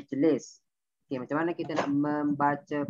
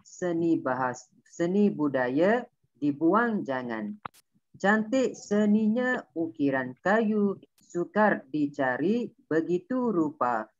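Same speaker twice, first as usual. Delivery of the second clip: pantun recitation. Shown as a demonstration. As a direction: recite like a Malay pantun performer. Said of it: "bunyi dia akan macam ni".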